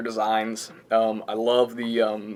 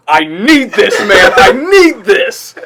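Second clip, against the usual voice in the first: lovestruck pleading; 7 semitones higher, 10 dB louder, much slower than usual. Retold or imitated. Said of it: "he's like".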